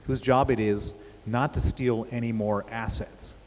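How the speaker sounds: slow, with weight landing on "assets"; stress on assets. Real, not acted. Explaining the new CEO's limits to the interviewer, stressing "assets". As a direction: lean on the word "assets" to make the point. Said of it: "I stress the word assets".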